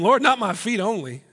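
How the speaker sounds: eager Peter. Acted.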